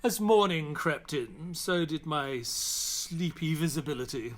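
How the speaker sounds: measured, unhurried storytelling voice; calm first-person narration of the journey; story narration. A narrator's reading. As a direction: tell it like a memoir read aloud. Watson narrates the story between scenes.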